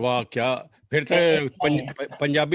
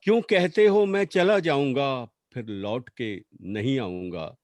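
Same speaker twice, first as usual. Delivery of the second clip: poetry recital; 3 semitones lower than usual. Acted. Recites poem as pleading wife.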